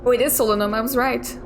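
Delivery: ordinary talk, nothing marked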